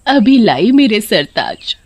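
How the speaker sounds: playfully flirty wife; coquettish. Acted. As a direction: coo to the husband, teasing. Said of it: "पत्नी अदा दिखाते हुए". (अदा दिखाते हुए)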